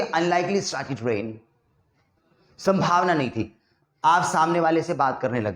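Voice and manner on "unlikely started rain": drawn-out, very slow model sentence; example sentence, slowly. Shown as a demonstration. Teacher to students, modelling the sentence very slowly. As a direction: spell it out word by word for the learner. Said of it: "आप ऐसे बोलोगे कि".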